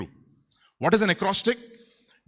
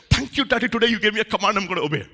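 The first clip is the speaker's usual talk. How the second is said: lightly voiced eager, obedient child; mock grateful child; 4 semitones higher, faster than usual. Preacher imitates child thanking Daddy for a command, mock grateful. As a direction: play an implausibly thankful kid. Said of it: "How many of your children said".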